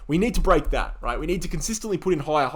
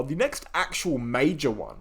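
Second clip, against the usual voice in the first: major leaned on, slower line; stress on major; slower than usual. Real, not acted. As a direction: hit the word major hard and slow. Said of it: "I'm emphasizing the word major".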